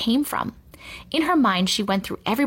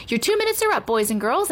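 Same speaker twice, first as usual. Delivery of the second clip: high, singing-out classroom call; teacher calling time; teacher's announcement; 3 semitones higher than usual. A narrator's reading. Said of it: "announced Miss Zarves".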